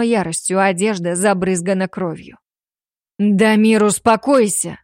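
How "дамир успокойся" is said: louder call to calm down; exclaiming. Acted. Man calling out to stop the enraged alpha, loud. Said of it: "воскликнул мужчина".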